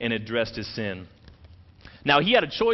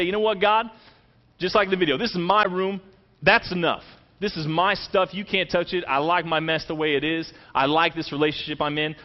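defiant rebellion; 3 semitones higher than usual. Pretend. Voicing defiant rebellion against God.

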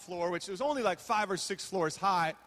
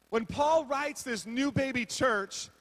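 slow emphatic restart; 2 semitones higher, slower than usual. Shown as a demonstration.

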